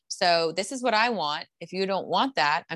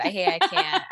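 laughing; 11 semitones higher than usual. Real, not acted. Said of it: "I can't even do it".

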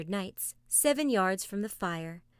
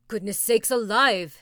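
startled exclamation; 9 dB louder than usual. A narrator's reading. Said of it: "said Tegumai".

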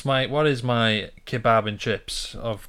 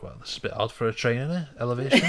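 puzzled; faster than usual. Retold or imitated. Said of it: "I was like".

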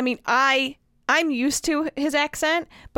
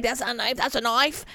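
put-on Australian accent. Telling friend to wave a knife at neighbors, mock Australian accent. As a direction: put on a Crocodile Dundee-style Australian accent. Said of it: "you make some Australian comment like".

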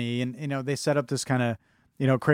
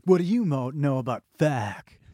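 lightly imitated over-the-top character voice; Lane. Lane challenging the kid about Feck, lightly imitated voice. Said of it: "You love doing his voice".

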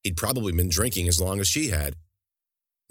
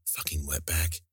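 much softer, low mutter under his breath; muttered slur; 4 semitones lower, 7 dB quieter than usual. Acted. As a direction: spit it out quietly as he turns away. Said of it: "muttering under his breath".

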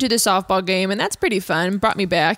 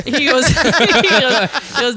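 laughing; 6 semitones higher, 7 dB louder, slower than usual. Real, not acted. Laughing while retelling a story.

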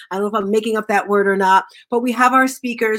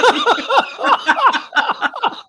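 a high, bright burst of laughter; 12 semitones higher than usual. Real, not acted. Host laughing at her ascot mix-up, high laugh. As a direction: break up laughing. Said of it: "Not the escargot".

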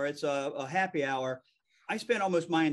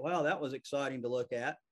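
understated sarcastic wow, softly delivered; underplay the fake admiration, quieter; mock-impressed sarcasm; 3 semitones lower, 5 dB quieter than usual. Viewer reacting to a plain gray wall, understated sarcasm.

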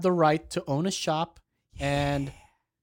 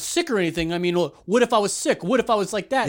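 imitated worked-up challenge, slightly louder; agitated, not calm; 3 dB louder than usual. Co-host imitating his friend challenging staff, not calm. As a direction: fire off indignant mock questions. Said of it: "that's not being calm at all".

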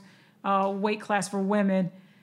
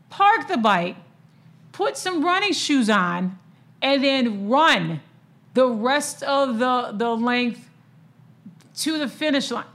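amazed build-up; 3 semitones higher, 3 dB louder than usual. Real, not acted. Marvelling at triathletes' feat.

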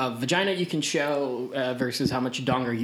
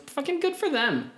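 excited; 13 semitones higher than usual. Real, not acted. Gleeful cheer for the characters.

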